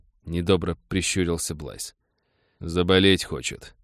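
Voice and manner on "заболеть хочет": strikingly calm. Acted. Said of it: "поразительно спокойно отозвался".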